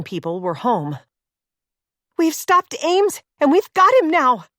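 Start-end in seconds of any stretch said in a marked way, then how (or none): 2.2-4.5 shouted over a roaring engine; shouting. Acted. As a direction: call it out loud over the noise. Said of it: "Claire shouted over the roar".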